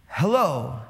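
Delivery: a hint of a slow, smiling holy pastor; slow smiling hello. Imitating Pastor Chuck's greeting from the pulpit, lightly voiced slow smiling hello. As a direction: stretch the hello out gently with a smile. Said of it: "you go slow, and you take long pauses, and you smile at everybody".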